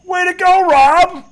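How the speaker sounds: loud, high mock cheer; sarcastic congratulation. Host to coach whose speech backfired, loud sarcastic congratulations. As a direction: hail the blunder with big fake praise.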